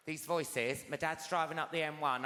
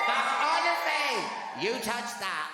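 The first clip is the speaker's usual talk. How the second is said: higher, louder sudden shout; mock outburst; 7 semitones higher, 7 dB louder, slower than usual. Warning the crowd off her calf, loud mock shout. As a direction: blurt it out loud.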